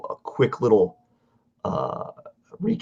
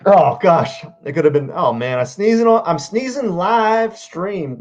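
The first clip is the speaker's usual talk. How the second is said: high, flustered and louder; flustered after sneezing; 9 semitones higher, 6 dB louder than usual. Real, not acted. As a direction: caught off guard by a sneeze, rattled. Sneezing during the live stream.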